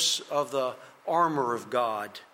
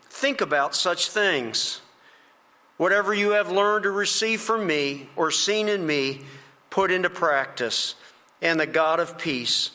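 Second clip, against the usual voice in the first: measured, slightly raised reading voice; scripture reading; 2 semitones higher than usual. Acted. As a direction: proclaim the verses clearly, phrase by phrase. Reads scripture aloud to congregation.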